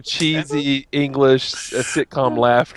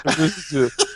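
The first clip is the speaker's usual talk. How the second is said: talking through clenched teeth; words pushed through teeth; through gritted teeth; slower than usual. Shown as a demonstration. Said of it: "I'm gonna talk through my teeth".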